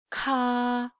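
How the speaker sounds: strong puff then held vowel in "ka"; breath-driven k in "ka"; aspirated k. Shown as a demonstration. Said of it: "let's just read each sound".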